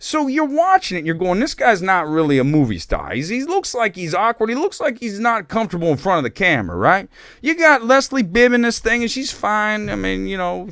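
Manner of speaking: hammed-up Italian accent, pitched high; bad Italian accent. Host reviewing a film in bad Italian accent. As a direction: rant in a terrible high Italian-American voice. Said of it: "it's the shittiest Italian accent".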